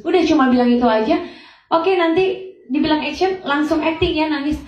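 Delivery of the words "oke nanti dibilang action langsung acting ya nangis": retold director instructions. Director instructing young actress, retold.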